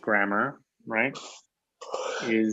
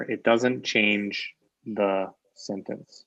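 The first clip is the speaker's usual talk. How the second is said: slow emphasis; much slower than usual. Shown as a demonstration. Teacher stresses the point slowly.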